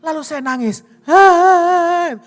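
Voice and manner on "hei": sudden loud, higher "Hei"; a father's alarmed call to his child; retold startled shout.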